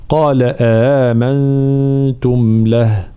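slow recitation; تلاوة متأنية; Quran recitation. Shown as a demonstration. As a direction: recite it slowly and carefully. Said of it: "التقاء همزتين".

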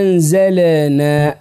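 anzalena, the L released too much; bounced lam in anzalna. Shown as a demonstration. Teacher mimicking the mistake, L bounced in anzalna. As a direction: add a little vowel after the L of anzalna. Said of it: "ننطق اللام ونقلق لها".

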